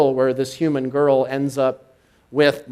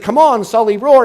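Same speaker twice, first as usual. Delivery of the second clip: urging Sully; 9 semitones higher, 10 dB louder than usual. Retold or imitated. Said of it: "he's like".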